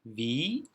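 "Wie" with a drawn-out ee; long i. Shown as a demonstration. Teacher showing I E as long i, held vowel. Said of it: "uzun i olarak okumamız".

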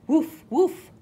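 high, loud puppy woofs; puppy bark. A narrator's reading. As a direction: yap it out like a puppy. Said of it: "Puppy barks".

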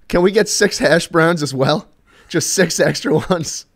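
mildly voiced friend calling an extra order; retold drive-thru order.

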